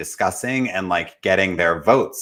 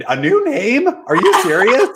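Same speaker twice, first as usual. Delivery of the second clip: very high, louder incredulous squeak; stunned disbelief; 5 dB louder than usual. Retold or imitated. Jeremy hearing yet another new name, high loud disbelief. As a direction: shriek of utter disbelief at the news.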